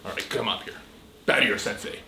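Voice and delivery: unvoiced, quiet order; whispered command. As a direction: say it under your breath. Sensei repeats command louder.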